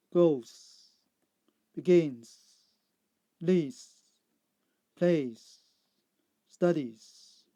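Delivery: loud, separate words, each with a long final "z"; Z endings. Shown as a demonstration. Teacher giving answers to learners, loud drawn-out Z endings. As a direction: read each word alone, drawing out the ending. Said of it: "C sound".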